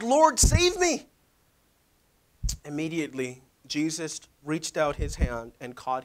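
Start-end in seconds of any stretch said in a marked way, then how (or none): 0.0-1.1 high, slow desperate plea; crying out. Acted. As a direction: call out as if sinking. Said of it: "Cried out".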